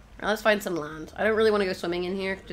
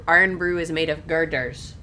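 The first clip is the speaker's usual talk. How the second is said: slow, louder Scottish advert voice; Scottish accent; 6 dB louder than usual. Retold or imitated. Player quoting the Irn-Bru advert, Scottish accent. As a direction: imitate a Scottish drink advert, taking it slowly. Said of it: "you gotta say it with a Scottish accent".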